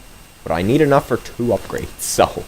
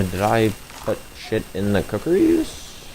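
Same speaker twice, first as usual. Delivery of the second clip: voice crack; 3 semitones lower, 5 dB quieter than usual. Real, not acted. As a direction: voice cracking mid-sentence. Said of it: "Why did my voice crack like that?".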